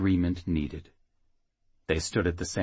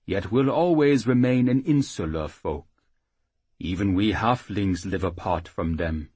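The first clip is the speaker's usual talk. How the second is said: gentle halfling priest; 4 dB louder than usual. Acted. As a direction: speak as the kindly little priest. Priest explains the Unyars.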